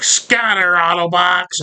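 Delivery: high, drawn-out imitated command; mock battle cry. Leader scattering the Autobots, high mock call. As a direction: call it out high, stretching the first word. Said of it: "He's like".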